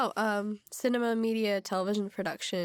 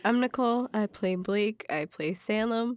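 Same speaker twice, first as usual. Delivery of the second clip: stuffy nose. Real, not acted. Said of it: "I sound weird 'cause I'm sick".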